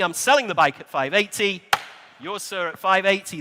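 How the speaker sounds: brisk rolling auction patter; auctioneer calling bids. Acted. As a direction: call the bids like a live auctioneer.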